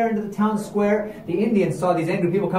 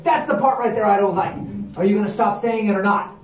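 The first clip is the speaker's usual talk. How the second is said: angry demand; 3 semitones higher, 3 dB louder than usual. Acted. Ricardo demanding they stop.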